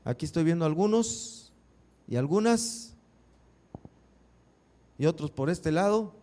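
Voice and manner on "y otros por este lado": ordinary talk, nothing marked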